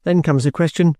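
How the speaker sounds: lightly voiced soldier, in short measured phrases; stoical trooper. Trooper explains his plight to the young lady, stoical. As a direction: lay out the facts one by one, without complaint. George's dialogue in the narration.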